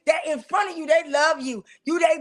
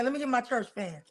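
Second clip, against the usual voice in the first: church lady fanning. Pretend. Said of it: "it's getting hot in here".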